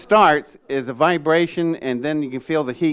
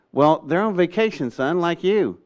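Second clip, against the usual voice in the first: patronizing adult, pitched up; mock-patronizing, slightly higher voice; condescending; 4 semitones higher than usual. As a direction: talk down to a kid. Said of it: "it's very condescending".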